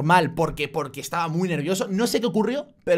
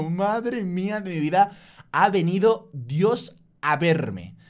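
awed relief; much slower than usual. Retold or imitated. Inner thought, saved from fine.

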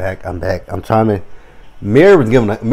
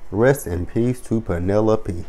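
mock mournful; 7 dB quieter than usual. Repeats tribute slowly, softly.

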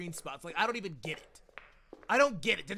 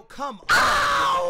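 high, loud "come on" yelled at the screen; loud urging; 11 dB louder than usual. Real, not acted. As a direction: yell it in frustration. Urging the game on.

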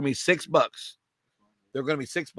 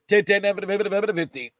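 quick rhythmic bid-calling chant; auction cadence; 2 semitones higher than usual. Real, not acted. Auctioneer taking bids for the shoes, quick chant. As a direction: roll the numbers like an auctioneer. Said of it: "in the middle of the cadence".

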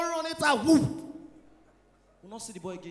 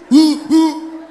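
stammering; 2 semitones higher, 14 dB louder than usual. Retold or imitated. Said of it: "say stammerer".

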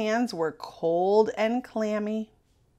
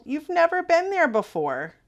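coaxing father; 6 semitones higher, 6 dB louder than usual. A narrator's reading.

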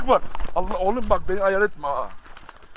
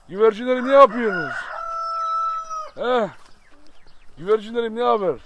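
şen seslenme; 6 semitones higher, 6 dB louder than usual. Real, not acted. Güvercinlere şakacı sesleniyor.

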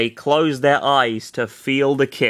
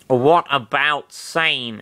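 slow man voice; much slower than usual. Acted. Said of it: "what was Guy's voice".

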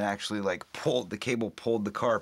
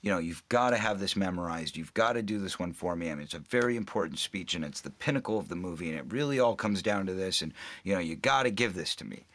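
ordinary delivery

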